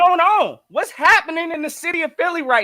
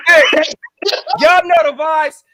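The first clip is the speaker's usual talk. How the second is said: a loud call to open the show; loud greeting; 5 dB louder, slower than usual. Real, not acted.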